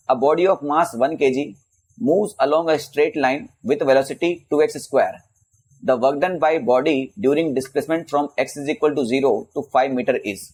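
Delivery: measured, word-by-word textbook read; reading out a question. Real, not acted. Teacher reading a physics problem to students, slow and measured. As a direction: read the exam problem out slowly.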